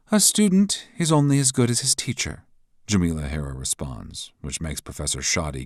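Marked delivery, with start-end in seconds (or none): 0.1-2.4 high, loud, taunting woman's voice; mocking rival. A narrator's reading. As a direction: needle him with scorn.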